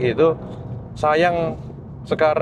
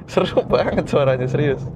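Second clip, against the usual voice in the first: cathedral echo. Real, not acted. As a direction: voice bouncing off the walls. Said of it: "Suaranya kena tembok ini bisa gema banget".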